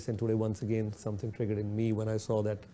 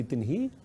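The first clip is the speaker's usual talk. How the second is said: "Tin hi" set apart and stressed; emphasized tin hi; 2 semitones higher than usual. Shown as a demonstration. Teacher singles out "Tin hi" for listeners, stressed. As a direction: isolate and mark "Tin hi". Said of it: "I'm emphasizing on the word in Punjabi".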